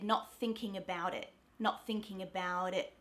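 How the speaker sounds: about said with relaxed schwa; thinking about it with lax first syllable; natural Aussie not thinking about it. Shown as a demonstration. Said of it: "I said".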